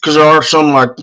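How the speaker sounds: talking round a cough drop; mouth full. Real, not acted. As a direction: speak with a lozenge in your mouth. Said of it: "I got a cough drop in my mouth".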